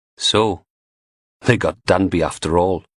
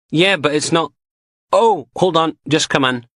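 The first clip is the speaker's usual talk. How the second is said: put-on higher, eager young constable voice; chatty young constable; 9 semitones higher than usual. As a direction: gossip the news eagerly.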